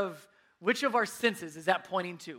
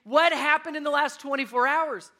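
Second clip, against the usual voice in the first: retold frustration; 6 semitones higher, 6 dB louder than usual.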